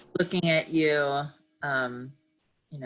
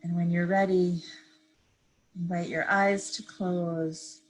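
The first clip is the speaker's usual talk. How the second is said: calm, unhurried meditation guide; measured phrases with long pauses to breathe; guided meditation; 2 semitones higher than usual. Real, not acted. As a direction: ease listeners gently into stillness. Leads a seated meditation.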